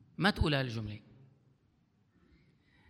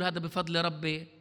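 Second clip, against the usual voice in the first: مدّعٍ ساخر. Retold or imitated. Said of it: "نبني عمارة ونقول".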